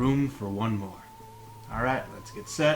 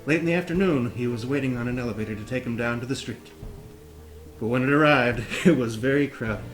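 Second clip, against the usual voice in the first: reading while holding a plank; strained, braced from planking. Real, not acted. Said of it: "let's hold that plank".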